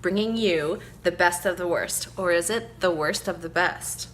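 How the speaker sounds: campy drag queen; Elvira impression. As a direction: vamp hostess voice, lightly done. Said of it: "Like my little intro there".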